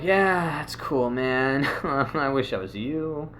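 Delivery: mildly envious mock. Envious of rolling friend.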